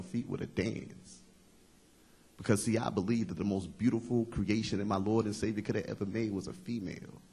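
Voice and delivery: rhythmic, lilting recital in long phrases; spoken-word poem. Acted. Poet tells men how to treat a woman, spoken-word recital. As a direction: recite it as advice in verse.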